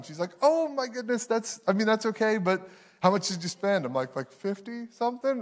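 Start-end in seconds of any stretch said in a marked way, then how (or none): 0.4-3.8 higher, mild mock concern; a hint of the patient wife; lightly voiced worried wife. Wife asks how much spent. 4.2-5.4 higher, softer guilty guess; sheepish. Retold or imitated. Sheepish admission of spending.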